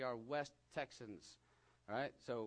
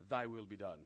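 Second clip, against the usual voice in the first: King James reading; 7 semitones lower than usual. Shown as a demonstration. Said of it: "I have to do this in King James".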